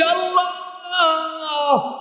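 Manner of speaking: high, wailing chanted cry to Allah; hammed-up pleading chant with stretched vowels. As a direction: cry out in long, high sung notes. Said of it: "চিৎকার করে বলছে".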